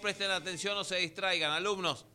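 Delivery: teacher scolding. Acted. Teacher asking distracted pupils for attention, mock scolding. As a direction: call the class to order like a teacher.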